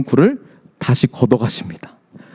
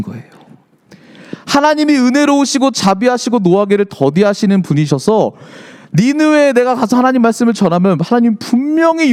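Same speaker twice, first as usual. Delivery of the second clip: higher-pitched mock protest; indignant arguing; 4 semitones higher than usual. Preacher voices Jonah confronting God, indignant arguing. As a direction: argue the case as Jonah, retold. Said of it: "따지기 시작합니다".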